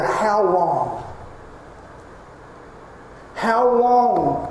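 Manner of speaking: anguished plea, building; pleading prayer. Acted. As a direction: cry out to God as if unheard. Voicing a pleading prophet.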